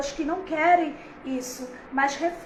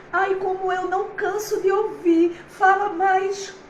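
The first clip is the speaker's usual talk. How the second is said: delighted plea; 4 semitones higher, 4 dB louder than usual. Retold or imitated. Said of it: "como ela disse".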